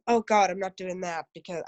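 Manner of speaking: objector's line with an American twang; American accent. Acted. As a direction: slip into a light American accent. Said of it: "put an American accent on".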